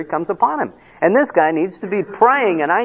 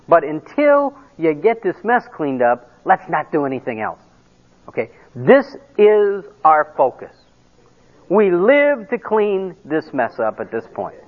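firm dad; 3 semitones lower than usual. Retold or imitated. Dad retells laying down chore rules.

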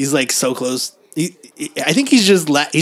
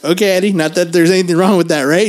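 mock superintendent; 5 semitones higher, 5 dB louder, faster than usual. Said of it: "the superintendent's like".

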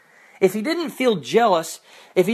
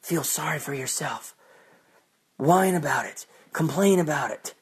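lower, much softer mock invitation; sarcastic urging; 5 semitones lower, 4 dB quieter than usual. Preacher sarcastically urging self-pity, lower and mocking. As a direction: coax them mockingly into whining. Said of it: "sarcastic advice to wallow".

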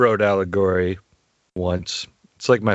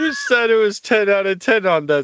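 high-pitched, put-on wounded protest; mock hurt; 13 semitones higher than usual. Host protesting co-host's teasing about the segue, mock hurt. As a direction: play up the indignation, voice way up high.

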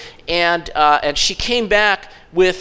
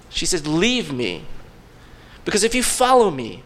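hopeless; 2 semitones lower than usual. Retold or imitated. Naomi sending Ruth away, hopeless.

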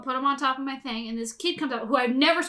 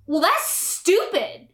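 slow, higher-pitched put-down; mock scornful; 4 semitones higher, much slower than usual. Fourth grader belittling a girl's worms, mock scornful. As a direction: draw out the contempt, pitched up. Older bully sneers at her.

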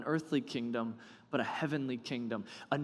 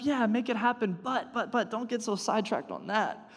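laughing; 8 semitones higher than usual. Real, not acted. Laughing through the paraphrase.

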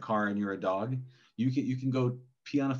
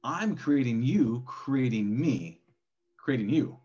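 slow echo call; slower than usual. Acted. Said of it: "yelling into a cave and it's the echo".

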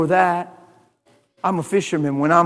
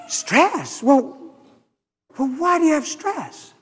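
mock surprise; 8 semitones higher than usual. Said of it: "And I said".

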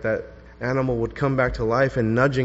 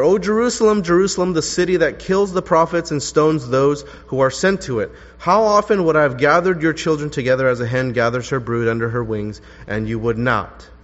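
strong, raised reading of the lament; ringing reading; 4 dB louder than usual. Shown as a demonstration. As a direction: proclaim it out to the room. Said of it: "you notice how Jesus lamented for Jerusalem".

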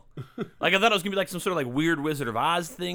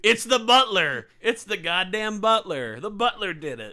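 mock detective reveal; 3 semitones higher, 4 dB louder, slower than usual. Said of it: "is just like".

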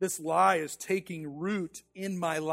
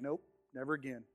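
quiet dejected vow; 5 semitones lower, 10 dB quieter than usual. Retold or imitated. Sat dejected in chair.

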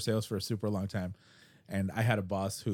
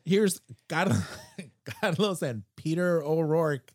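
high, slow show-host introduction; morning zoo DJ; 6 semitones higher, slower than usual. Acted. Announcing his imagined podcast with his Irish friend, DJ voice. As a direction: introduce the hosts like a cheesy radio announcer. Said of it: "Wacky Morning Zoo Crew".

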